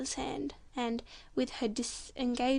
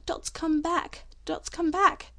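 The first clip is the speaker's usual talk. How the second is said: joyful shout; 5 semitones higher, 4 dB louder, slower than usual. Acted. Father shouting the news.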